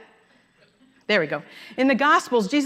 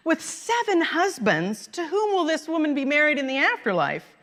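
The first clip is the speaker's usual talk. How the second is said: mocking; 6 semitones higher than usual. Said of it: "mocking him".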